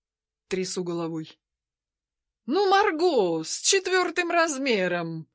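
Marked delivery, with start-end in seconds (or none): 2.5-5.3 cheeky, loose. Acted. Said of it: "развязно повторяет Эмиль".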